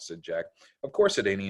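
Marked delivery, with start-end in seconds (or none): 0.8-1.1 put-on little girl voice. Annie repeating line.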